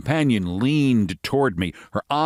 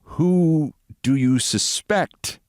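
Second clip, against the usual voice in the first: sudden question; 6 semitones higher, much slower than usual. Acted. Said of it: "I asked suddenly".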